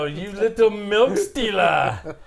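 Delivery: mock scolding. Scolding the milk thief mockingly.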